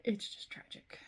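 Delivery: soft whisper, it's tragic; whispered sorrow. Real, not acted. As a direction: breathe it out in a whisper. Sad news about hurricanes.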